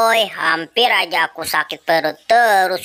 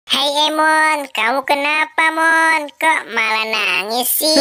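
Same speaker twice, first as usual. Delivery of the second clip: concerned friend; 7 semitones higher than usual. Acted. Po greets sick Emon.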